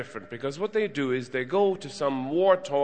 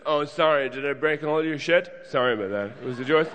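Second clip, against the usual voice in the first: bad flatmate. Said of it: "the bad flatmate of the world".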